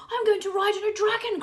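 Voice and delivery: high, loud eager cry; child choosing a dragon to ride; excited child. A narrator's reading. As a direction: call out with glee. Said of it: "cried one".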